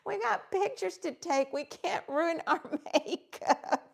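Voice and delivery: mock-scold that cracks into laughter; quoting with a laugh. Retelling Jennifer's warning about ruining makeup, laughing. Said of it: "She said".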